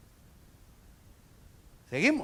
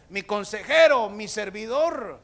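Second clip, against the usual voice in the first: acted royal address; 4 semitones higher, 8 dB louder than usual. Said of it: "no le dijo".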